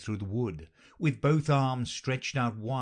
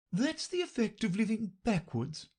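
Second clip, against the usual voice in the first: kindly; 12 semitones higher than usual. A narrator's reading. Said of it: "the Queen said kindly".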